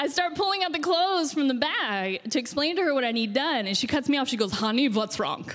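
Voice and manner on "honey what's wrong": put-on German-accented voice. Retelling what a woman said on opening her door, german accent. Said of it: "(German accent)".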